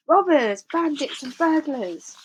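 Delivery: loud high angry shriek, slowing; rat's shriek. A narrator's reading. Rat shrieks insults at the fleeing thieves, loud and high. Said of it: "shrieked the rat".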